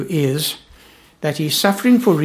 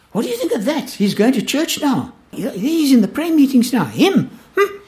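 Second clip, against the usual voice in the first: mock scandalised, much higher; scandalised gossip; 8 semitones higher than usual. Preacher mimicking churchgoers sneering at a convert, high and scandalised. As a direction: sniff at a converted sinner in disbelief. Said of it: "all we've ever thought about them".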